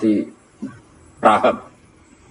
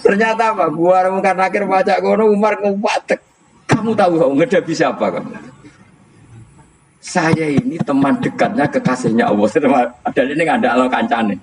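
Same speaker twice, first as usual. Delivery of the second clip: high-pitched, laughing through the tale; can barely finish the story for laughing; laughing storytelling; 8 semitones higher than usual. Real, not acted. Umar faces Mungkar Nakir, laughing. (bercerita sambil tertawa geli dengan suara tinggi)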